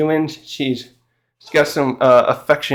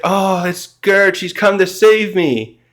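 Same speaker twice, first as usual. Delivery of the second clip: slow, higher, lightly voiced dazed man; dazed Roto; 5 semitones higher, slower than usual. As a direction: drag it out like he's barely conscious. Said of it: "Roto's still not with it".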